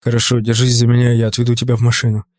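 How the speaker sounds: low, steady protective male voice; calm reassurance. A narrator's reading. Dante takes charge, reassures her.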